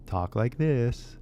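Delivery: slow, drawn-out talk like this; slow demo. Shown as a demonstration. Teacher showing English learners the California way, slowly. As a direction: let talk like this hang slowly. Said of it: "if you wanna talk like this".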